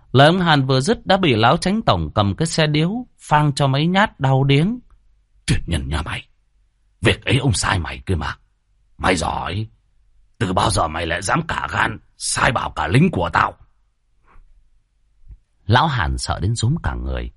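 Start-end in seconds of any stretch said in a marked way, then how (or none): 5.5-13.5 a mild angry landlord; scolding old chief. Acted. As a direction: dress down the servant with contempt.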